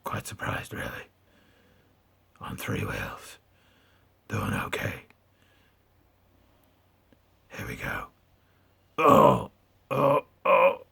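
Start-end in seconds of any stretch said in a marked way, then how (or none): 0.0-8.1 low rasping growl, pitched down; deep Batman growl; gravelly Batman voice. Pretend. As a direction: talk like Batman. Batman voice held.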